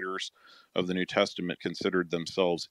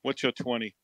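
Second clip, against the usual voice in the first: trucker voice; 6 semitones higher than usual. Pretend. Trucker lingo bit continued.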